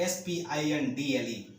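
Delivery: S P I N D L E spelled letter by letter, slowly; slow letter-by-letter spelling for students. Shown as a demonstration. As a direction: spell स्पिंडल out slowly, one letter at a time. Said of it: "स्पिंडल".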